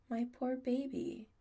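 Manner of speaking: a touch of tender fussing; softly sympathetic. A narrator's reading. Adam comforting sore Chris, mildly tender. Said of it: "Adam says softly".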